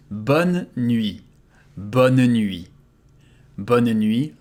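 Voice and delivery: bonne nuit with a long n joining the words; French bonne nuit. Shown as a demonstration. Teacher modelling bonne nuit slowly. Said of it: "similar to the other expressions".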